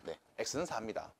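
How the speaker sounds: ordinary talk, nothing marked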